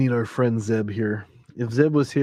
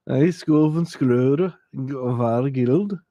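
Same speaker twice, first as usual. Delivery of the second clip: mock Norwegian; much slower than usual. Shown as a demonstration. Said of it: "I slaughter the language".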